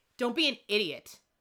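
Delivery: ordinary delivery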